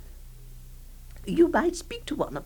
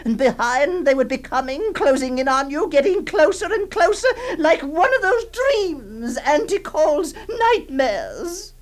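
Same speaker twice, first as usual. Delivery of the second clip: frantic. Acted. Frantic chase telling, laughing and crying.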